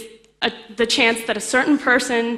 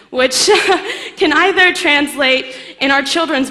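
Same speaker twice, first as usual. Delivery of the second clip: real laugh breaking into the words, louder and higher; 5 semitones higher, 8 dB louder than usual. Real, not acted. Lecturer amused by own French attempt, laughing. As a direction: laugh through it, voice lifting.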